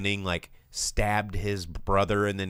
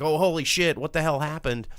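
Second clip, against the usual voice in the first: shocked friends; 7 semitones higher, 4 dB louder than usual. Retold or imitated. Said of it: "everybody's like".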